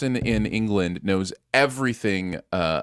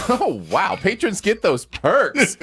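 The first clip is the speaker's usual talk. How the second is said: laughing; 8 semitones higher, 3 dB louder, slower than usual. Pretend. Host echoes line laughing.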